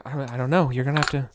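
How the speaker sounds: lightly voiced flustered villager; a touch of helpless worry; halfling villager. GM speaking as the villager to the adventurer. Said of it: "He's saying".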